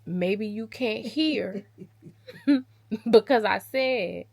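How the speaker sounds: slow, laughing through the words; laughing sarcasm. Retold or imitated. She teases her deaf-seeming suitor while laughing. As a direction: tease him, barely holding back laughter. Same jab retold, laughing.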